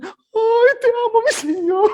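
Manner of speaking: very high, loud, swooning mock praise; mock weepy worshipper. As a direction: gush to the Lord like a theatrical church lady. Mocking overemotional worshipper in church. (adoración teatral burlona, muy aguda)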